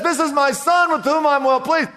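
a hint of a booming heavenly voice. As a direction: call it out as the voice from heaven. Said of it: "you hear this voice from heaven that says".

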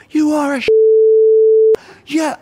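very high mock shout of abuse; high, strained imitation of an angry fan; imitated heckler. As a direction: yell it like a bloke up in the seats. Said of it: "he's in the seats".

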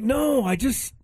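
rising, drawn-out despair; hopeless sigh of a reply; exasperated. Retold or imitated. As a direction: give up mid-sentence, deflated.

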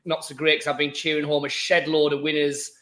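hoarse, worn-out voice; croaky voice. Real, not acted. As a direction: croak through a tired throat. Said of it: "apologise for my croaky voice".

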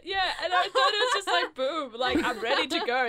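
laughing while talking; words broken by laughter. Real, not acted. Laughing through explanation.

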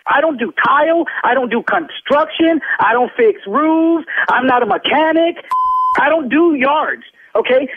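heated, indignant street-tough comeback; angry tough talk. Real, not acted. Loan officer snapping at a rude prank caller, angry. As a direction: put the caller in his place, fed up. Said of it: "I don't even like to talk like this".

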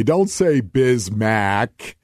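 "Bismack" with a flat a as in mack, drawn out; slow, deliberate "Bismack" rhyming with back; rejected pronunciation. Shown as a demonstration. Host warns listeners off a name, rejected "Bismack" drawn slowly with a mack ending. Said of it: "don't say Bismack, by the way".

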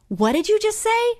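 high-pitched, playfully incredulous question; mock astonishment. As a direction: act amazed at what the child said. Acts out her surprised reply to boy.

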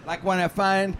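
slow, dramatic Pittsburghese card reading; hammed-up Pittsburghese love-card recital. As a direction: read the card in Pittsburghese, savoring each word. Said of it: "in his best Pittsburghese".

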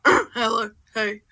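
lightly grunted greeting; mock-manly short grunts; grunting. Shown as a demonstration. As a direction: keep it to a masculine grunt. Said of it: "been just doing grunts like".

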